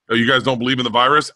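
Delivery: mock surprise. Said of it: "And I was like".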